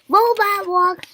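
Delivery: high, loud, slow command; shouted. A narrator's reading. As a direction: call out the move slowly. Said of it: "shouted Piggy".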